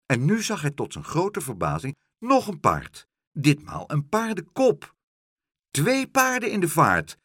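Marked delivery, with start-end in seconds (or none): 5.7-7.2 high, loud astonished cry; calling out. A narrator's reading. Boy spotting horses in the canal, calling out. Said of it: "riep Pluk".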